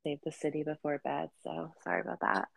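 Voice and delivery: stuffy, blocked-nose voice; talking through a stuffy nose. Real, not acted. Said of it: "you sound a little stuffy".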